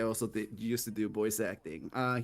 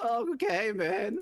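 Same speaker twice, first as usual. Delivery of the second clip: deliberate, squeaky, very high voice crack; 12 semitones higher, 4 dB louder than usual. After the other speaker's voice cracks, speaker cracks their own voice on purpose. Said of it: "let me crack my voice".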